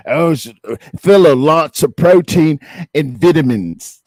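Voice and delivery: loud, hammed-up British accent; mock British accent. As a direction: imitate a British TV survivalist, badly. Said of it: "the British accent".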